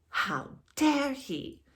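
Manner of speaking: breathless gasp, slow shocked whisper; appalled on Elizabeth's behalf. Real, not acted. Shocked reaction to Ronald.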